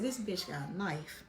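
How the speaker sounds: retold hushed warning. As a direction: warn her under your breath. Warning friend quietly in class.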